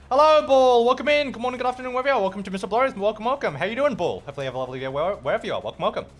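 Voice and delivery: bright welcome; host welcomes a viewer; greeting. Acted. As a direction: streamer greeting ritual. Streamer greets new viewer.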